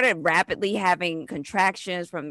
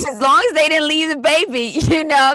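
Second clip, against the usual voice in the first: higher and louder joking quip; amused laughing retort; 8 semitones higher, 7 dB louder, faster than usual. Real, not acted. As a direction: toss off the joke with a laugh.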